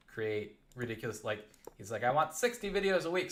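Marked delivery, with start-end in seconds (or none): 2.0-3.3 demanding boss. Retold or imitated.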